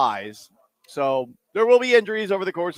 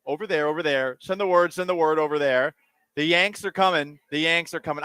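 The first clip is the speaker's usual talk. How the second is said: put-on rhythmic recital of an old war song; reading lyrics aloud; 3 semitones higher than usual. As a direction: read the verses with a marching beat. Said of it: "I'm gonna read the lyrics".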